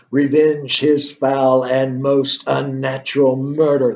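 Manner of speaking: slow, solemn ghost's command, lightly voiced. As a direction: read it slowly as the ghost's grave order. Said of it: "And the ghost says".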